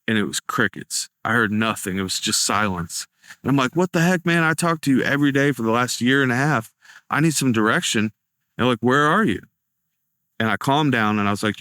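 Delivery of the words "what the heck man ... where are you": pitched higher, a retold frustrated cry at God; exasperated outburst. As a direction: let the frustration burst out, then plead. Frustrated at God's silence.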